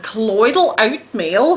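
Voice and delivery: lightly put-on Australian accent. Soap maker listing ingredients to viewers, playful Australian accent. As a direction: lean into Australian vowels on "oatmeal". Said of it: "which I have to say in Australian accent all the time".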